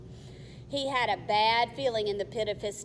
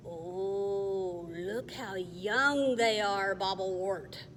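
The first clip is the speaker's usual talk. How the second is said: goblin voice; 2 semitones lower, slower than usual. Acted. Goblin speaks.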